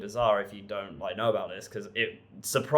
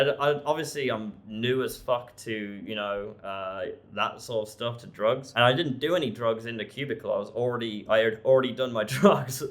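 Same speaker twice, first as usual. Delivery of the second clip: usual speaking voice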